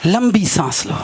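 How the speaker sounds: low, calming father's instruction; gentle, loving. Acted. Father coaxing his upset daughter to breathe, low loving voice. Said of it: "उसने उसे प्यार से कहा".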